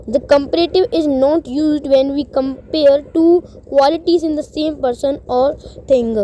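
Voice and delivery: reading the rule at half speed, word by word; slow rule reading. Acted. Teacher reading a grammar rule to students, slow dictation pace. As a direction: read it out slowly like dictation.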